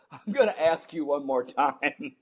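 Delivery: laughing plea. Retold or imitated. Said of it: "I said out loud".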